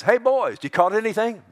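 high, loud holler across water; calling out. Acted. Jesus to the fishing disciples from the shore, called out high and loud. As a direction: call to them from way over there.

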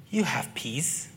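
soft, slow, unvoiced whisper. Real, not acted. Preacher assuring listeners, slow soft whisper. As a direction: breathe it to the congregation. Preacher stresses inner peace.

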